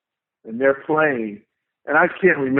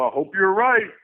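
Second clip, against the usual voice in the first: a touch higher, unconvinced, lightly imitating; doubtful hope; 4 semitones higher than usual. Imitating a bandmate's unsure reply, lightly hammed doubt. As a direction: echo the doubt back, rising a little. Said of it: "Like that".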